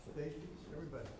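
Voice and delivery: calling out across the room, off-mic; summoning people from a distance; calling from far away. Real, not acted.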